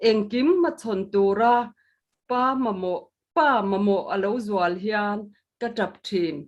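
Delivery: measured poetry recital; solemn poem reading; poem recitation. Acted. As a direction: give each verse line its weight. Poet recites own poem.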